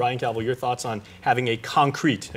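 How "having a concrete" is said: "concrete" drawn out slowly for emphasis; slow down and weight the word "concrete"; deliberate emphasis landing on "concrete"; stress on concrete. Retold or imitated. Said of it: "again, in all caps".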